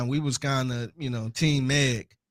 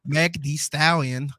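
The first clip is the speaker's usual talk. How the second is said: computerized voice; slower than usual. Retold or imitated. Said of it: "it sound like a computerized voice".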